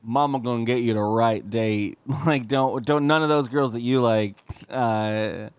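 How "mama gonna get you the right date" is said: lightly hammed-up Southern mom; Southern accent. Mom promising her son a date, in a Southern accent. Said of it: "horrible Southern accent".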